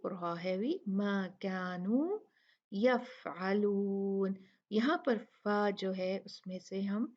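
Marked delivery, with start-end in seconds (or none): 0.9-4.4 slowly drawn-out recitation. Shown as a demonstration. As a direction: stretch the words as in tajweed.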